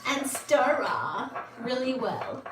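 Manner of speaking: put-on Belgian accent. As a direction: pour and stir in a mock Belgian accent. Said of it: "I wanna do a Belgian accent".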